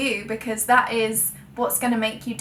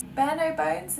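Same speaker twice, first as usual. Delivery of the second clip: questioning echo, higher with a rising end; doubting herself; 5 semitones higher, 3 dB quieter, slower than usual. Real, not acted. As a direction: query your own wording, puzzled. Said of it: "Is that even the right phrase?".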